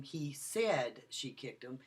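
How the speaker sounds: slow, with said pushed up and held; stress on SAID. Shown as a demonstration. Lecturer showing students stress on said. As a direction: lean on said so it sounds disputed. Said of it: "I changed the emphasis of the word".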